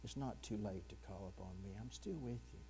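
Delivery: very soft, low, gentle reassurance; almost whisper it, tenderly comforting. Acted. Preacher voices Jesus to the officers sent to take him, tenderly. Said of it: "he very tenderly just says".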